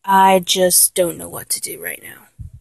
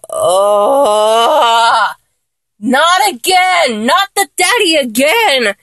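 exasperated groan; 3 semitones higher, much slower than usual. Acted. Partner says it again, she wails in exasperation. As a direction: groan it out, slow and despairing.

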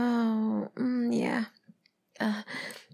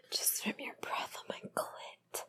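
soft, unhurried whisper; breathless whisper; 10 dB quieter than usual. Pretend. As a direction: let the voice drop away to breath. Intimate roleplay.

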